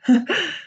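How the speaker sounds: a short, uneasy laugh; nervous laugh. A narrator's reading. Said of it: "Laughing nervously".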